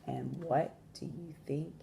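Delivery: measured storytelling with long pauses; expressive picture-book narration; story read to children. A narrator's reading. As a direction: read aloud to young listeners, stressing key words.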